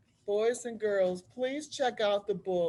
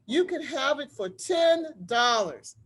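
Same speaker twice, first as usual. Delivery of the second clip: louder, firm voiced seller; Harriet's offer; 5 semitones higher, 6 dB louder than usual. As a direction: call out the price to the buyer. Harriet names her price.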